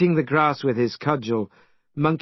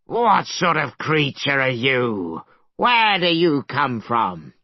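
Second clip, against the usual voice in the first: dragon shout. Acted. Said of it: "The dragon leapt up and shouted".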